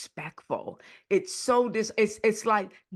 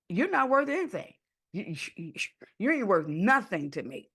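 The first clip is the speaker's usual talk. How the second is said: mock contempt.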